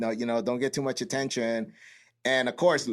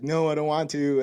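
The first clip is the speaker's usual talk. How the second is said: reluctant recruit; 4 semitones higher, 3 dB louder than usual. Retold or imitated.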